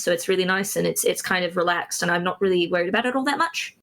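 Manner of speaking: a relaxed, easy English accent with a hint of Bristol. Shown as a demonstration. Streamer demoing his English accent for the chat, relaxed English accent. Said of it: "I do something like this".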